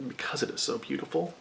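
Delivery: hushed and dreamy, rising at the end; almost breathe it out in admiration; soft, rising murmur of delight; soft adoring. Real, not acted. Gushing over a book cover.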